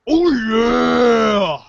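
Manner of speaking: hammed-up mascot yell; Kool-Aid Man shout. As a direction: bellow it like a cartoon mascot. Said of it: "resist the urge to shout".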